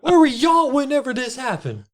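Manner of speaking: put-on high, scolding old woman; old lady voice. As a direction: scold cops like an angry granny.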